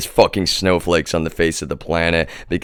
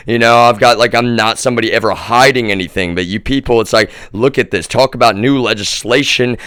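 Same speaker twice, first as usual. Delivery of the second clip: angry rant; 4 semitones higher, 5 dB louder than usual. Real, not acted.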